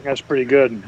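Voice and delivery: talking while crunching; crunching chips. Real, not acted. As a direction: speak around a crunchy bite. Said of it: "Sorry if you can hear me crunching".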